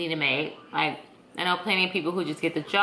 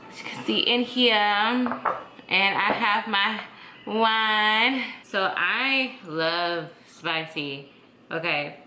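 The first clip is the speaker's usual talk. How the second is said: tipsy. Real, not acted. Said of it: "Sorry, I'm a little tipsy".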